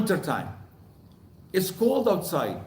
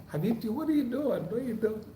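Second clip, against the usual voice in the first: higher, softer grandparent's question; soft, higher-pitched baby talk; cooing to baby; 4 semitones higher, 8 dB quieter, faster than usual. Retold or imitated. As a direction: gently ask a little one, voice lifted. Speaking to his baby granddaughter.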